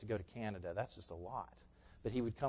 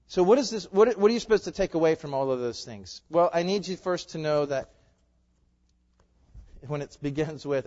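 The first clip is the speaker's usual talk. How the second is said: louder, pitched up, urgent; preaching at full force; 4 semitones higher, 8 dB louder than usual. Real, not acted. Pastor urging the congregation, loud and rising. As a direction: drive it home to the church.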